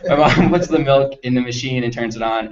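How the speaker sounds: giggling while saying it; real laughter; laughing through it. Real, not acted. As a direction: fight back laughter through the line. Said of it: "I can't even say it in English".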